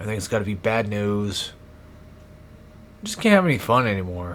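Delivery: drained, tired tone. Complaining about everything late at night: sounding drained and tired. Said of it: "I know I'm sounding drained".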